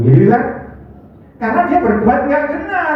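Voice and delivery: ordinary talk, nothing marked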